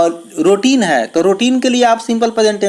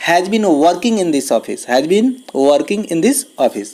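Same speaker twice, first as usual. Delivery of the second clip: slow dictation; much slower than usual. Shown as a demonstration. Teacher reads the answer aloud.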